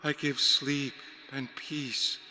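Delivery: high, slow, hypnotic murmur; a vampire lulling men into a trance, slow and high; soporific vampire voice. A narrator's reading. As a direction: cast a spell with each slow word. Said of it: "Her voice got a soporific effect".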